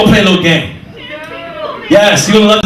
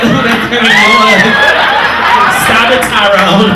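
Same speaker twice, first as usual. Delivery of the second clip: put-on girly protest voice; 3 semitones higher, slower than usual. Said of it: "She, she like".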